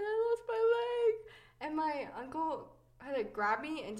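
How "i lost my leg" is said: high, slow, mock wail; mock crying. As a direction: replay the child's cry, hammed up. Child crying to family.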